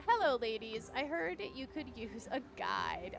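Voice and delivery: lightly flirtatious greeting; flirting guide. Acted. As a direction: read it as a mildly flirty guide. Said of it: "he's flirting with them".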